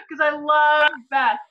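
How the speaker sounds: pushing the words out through sobs; crying. Real, not acted. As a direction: voice breaking as she cries. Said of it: "Oh my God".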